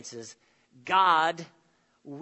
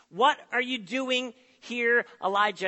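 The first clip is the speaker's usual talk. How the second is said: God's loud question; 5 semitones higher, 5 dB louder than usual. Acted. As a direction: boom it like a searching call. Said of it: "he shows up with a question".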